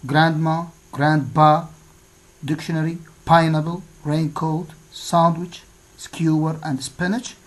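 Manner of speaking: GRANDma, GRANDpa, DICtionary, PINEapple, RAINcoat, SANDwich, SKEWer, SPINach; stress on first syllable. Shown as a demonstration. Teacher repeating the exercise words from grandma to spinach, first syllable stressed in each. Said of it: "on the first syllable".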